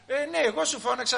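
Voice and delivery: loud, high-pitched mock father yelling; hammed-up angry dad; father shouting. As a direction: shout the child down, pulling rank. Father shouts down his child.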